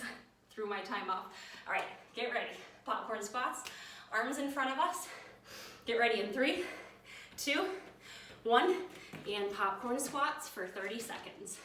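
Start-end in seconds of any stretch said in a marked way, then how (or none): 5.8-8.7 rising, louder call of three, two, one; calling out the countdown. Real, not acted. Coach calls out the count to the class, louder and rising.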